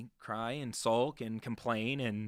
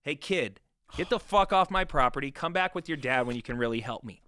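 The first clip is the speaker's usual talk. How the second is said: angry homeowner; 3 semitones higher, 6 dB louder than usual. Retold or imitated. Homeowner at her door to the young salesman, acted angry shout. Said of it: "she s-, says the worst thing".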